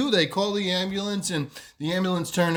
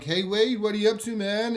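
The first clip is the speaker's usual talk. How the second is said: higher, lively hail to a mate; cheery greeting; 6 semitones higher than usual. Retold or imitated. Friends greeting their mate after hospital, cheery hail.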